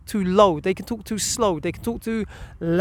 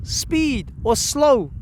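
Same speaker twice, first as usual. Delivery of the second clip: slow demo; 4 semitones higher, much slower than usual. Shown as a demonstration. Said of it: "the pace".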